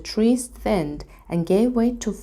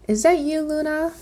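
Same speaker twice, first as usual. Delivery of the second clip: high, small dragon voice; 10 semitones higher than usual. A narrator's reading. Little dragon peeks from the bag, high small voice. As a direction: peek out timidly, high. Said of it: "asked the nose".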